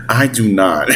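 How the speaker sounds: low imitated villain refusal; Bowser's defiant reply. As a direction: play Bowser refusing to yield. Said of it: "And Bowser's like".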